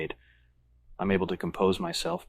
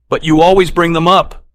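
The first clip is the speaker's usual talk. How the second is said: higher, louder whiny complaint; complaining friend; 10 semitones higher, 14 dB louder than usual. A narrator's reading. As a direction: protest like an irritated buddy. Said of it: "McDermott complains".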